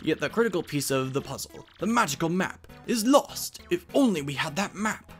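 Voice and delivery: scholarly storyteller with lively pitch swings; professor explaining lore. Acted. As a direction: lay out the legend like a professor.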